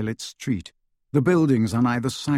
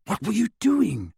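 high-pitched, sharp questioning; stern; 9 semitones higher than usual. A narrator's reading. Hermione questioning Harry in the bathroom, stern and high. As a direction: demand an explanation sternly. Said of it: "asked Hermione sternly".

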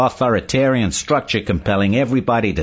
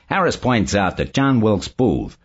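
pleasant; 4 semitones lower than usual. A narrator's reading. Barney explains his book to Saul, pleasantly. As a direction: explain it pleasantly, with easy confidence. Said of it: "Barney said pleasantly".

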